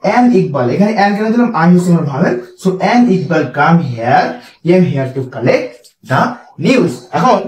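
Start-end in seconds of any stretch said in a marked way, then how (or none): 2.6-6.9 slow dictated sentence without an article before news; correct version, slow. Shown as a demonstration. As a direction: read the right version carefully. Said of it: "collector আগে কিন্তু দি হবে না".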